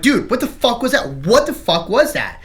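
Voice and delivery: high, loud mock alarm; hammed-up panic on seeing something; acting scared. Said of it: "We all started acting all scared and shit".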